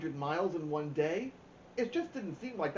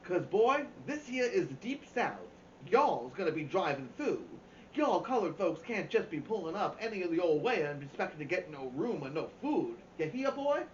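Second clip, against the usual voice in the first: put-on hillbilly accent; 4 semitones higher than usual. Dad teasing the kids in a hammed-up hillbilly accent. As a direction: ham up a Southern hillbilly accent to tease the kids. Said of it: "Dad did an imitation of a hillbilly accent".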